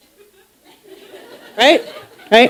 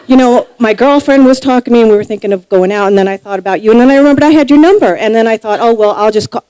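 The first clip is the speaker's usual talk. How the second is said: nervous rambling. Retold or imitated. Natasha rambles nervously on phone.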